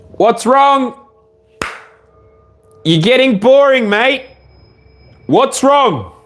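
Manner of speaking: high, sing-song voice for the dog; talking to the dog. Real, not acted. Owner asks her barking dog what's wrong, high pet voice. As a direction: coo up high at the restless pup.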